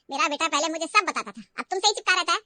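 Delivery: mother-in-law taunting Riya about her son. Acted. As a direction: needle her with a grudging sneer. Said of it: "ताने मारने लगी".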